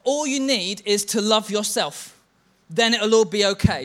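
lightly sung-out self-help line; mock slogan. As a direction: mimic a cheesy self-love motto. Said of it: "we hear people talk like this".

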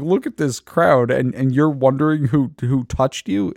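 a mock exasperated pushback; incredulous disciples. Disciples scoffing at Jesus over the crowd, incredulous. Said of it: "they're like".

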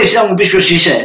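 mock the stubborn grandma's indignant question; bossy grandma. Grandma in the supermarket scolding him, mock indignant old-lady voice. Grandma insists on his identity.

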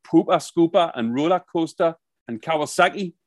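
lightly put-on Geordie; Geordie accent. Shown as a demonstration. Podcaster giving sample audition words in a light Geordie accent. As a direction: show off these words in mild Geordie. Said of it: "they're great words in Geordie".

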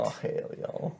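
unvoiced, under the breath; whispered cowboy oath. Player muttering a cowboy oath under the trap's rule, a whisper.

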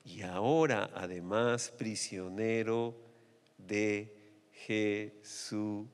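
slow, low, lingering over each phrase; slow reverent reading. Shown as a demonstration. Preacher reading Paul's plea slowly to listeners. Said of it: "este término que a mí realmente me captó".

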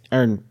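"Iron" clipped down to "urn" or "arn"; one short syllable for "Iron"; own way with iron. Shown as a demonstration. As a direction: say "Iron" briefly, with no middle glide. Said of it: "That's how you say it".

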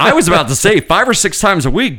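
laughing through the line. Real, not acted. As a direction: chuckle the words out. Laughing while quoting.

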